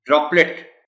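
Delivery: ड्रॉपलेट with the r after d leaned on; ड्रॉपलेट, first syllable stressed. Shown as a demonstration. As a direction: press the dr in ड्रॉपलेट. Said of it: "इस पर stress है".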